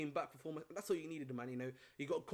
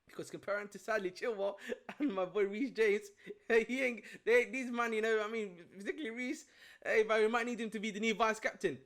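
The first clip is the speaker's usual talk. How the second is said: loud, high, laughing rant; 6 semitones higher, 8 dB louder than usual. Real, not acted. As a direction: laugh through the jab. Laughing while mocking the players.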